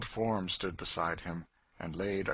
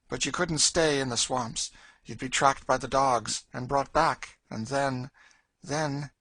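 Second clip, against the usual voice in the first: raised, ominous warning voice; grim Cassie; 6 semitones higher, 6 dB louder than usual. Acted. Woman warns girl about tracking dogs, grim and emphatic. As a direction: warn her, then leave it hanging.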